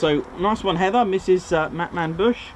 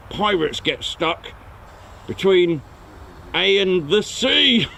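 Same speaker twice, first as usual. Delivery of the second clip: pirate joke; 2 semitones higher, slower than usual. Acted. Pirate joke with drawn-out punchline.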